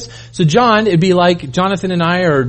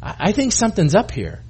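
thoughtful Peter; 5 dB quieter than usual. Acted. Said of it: "and he says".

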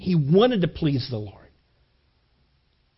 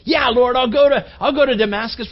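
reluctant agreement; 5 semitones higher than usual. Retold or imitated. Ananias reluctantly accepting the Lord.

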